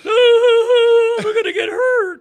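very loud, high, drawn-out fake wail; mock crybaby kid. Mocking rival kids who ran away, exaggerated crying whine. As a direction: imitate a scared kid bawling.

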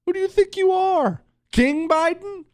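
very high, shrill-free squeaky mock indignation; mock outrage. Mocking outrage at Biden.

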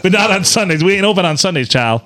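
put-on Southern drive-thru worker accent; folksy Southern accent aside. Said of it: "I like that accent".

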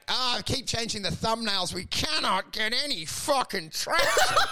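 mock yell. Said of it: "Now he just yells".

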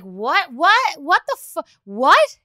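escalating baffled whats; stunned disbelief. Retold or imitated. Mom stunned by other parents' advice, baffled. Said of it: "I was like".

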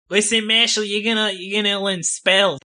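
hammed-up Australian accent that drifts; bad Australian accent. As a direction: attempt Boston and slide into Australian. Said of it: "That was an Australian accent".

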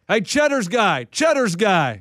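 repeated attention-getting call; mock calling out. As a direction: call over restaurant staff. Acting a customer calling staff.

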